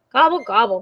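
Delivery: understated grumbling turkey; mild grumble. Acted. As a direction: grumble the gobbles lightly. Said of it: "grumbled Turkey".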